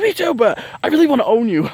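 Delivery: high, put-on clingy voice; possessive Taurus moon. Taurus moon friend claiming her, put-on and clingy. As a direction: purr it out possessively. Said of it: "my impersonations".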